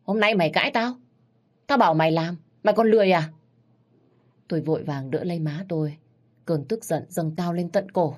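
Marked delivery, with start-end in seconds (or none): 0.0-3.3 raised, tense scolding; angry father. Acted. Drunk father scolding his wife for talking back, angry and raised. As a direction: bite out the words like a drunk bully. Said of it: "răng nghiến ken két".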